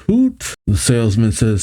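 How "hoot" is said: imitated owl hoot; owl calling out. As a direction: call out a light, high-pitched hoot. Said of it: "Hoothoot calls out".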